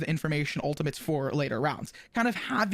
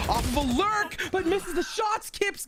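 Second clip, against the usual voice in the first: rising to a high excited call; live esports caster surge; excited play-by-play; 13 semitones higher than usual. Real, not acted. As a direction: build suspense, then cry out the miss. Live play-by-play of sudden action.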